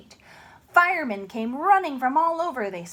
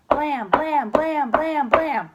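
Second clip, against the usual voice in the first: knocking; 4 semitones higher, 5 dB louder, slower than usual. Acted. Knocking sound.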